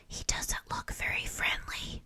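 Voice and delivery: soft unvoiced whisper. Beaver whispers about the new classmate, a soft whisper. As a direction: whisper it behind your hand to a classmate. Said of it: "whispered Beaver".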